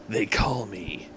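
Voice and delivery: slow, breathy whispered villain line. Acted. Villain whispers his name to the heroes. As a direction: whisper it slowly for menace.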